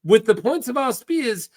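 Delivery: put-on theatrical accented pirate with swooping pitch; flamboyant pirate, scheming. Pirate urges Davos to strike the city, accented and grandiose. Voices Salladhor's dialogue.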